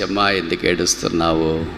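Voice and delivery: unhurried, caring question; tender consoling. Acted. Loved one coming close to someone crying, tender consoling. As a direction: ask it like a comforting loved one. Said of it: "చెప్పే ఆప్తులు ఎవరుంటారు".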